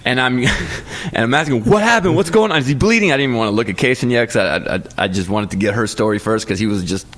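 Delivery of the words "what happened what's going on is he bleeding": not calmly. Retold or imitated. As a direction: burst in demanding answers. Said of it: "I ran in the room not calmly".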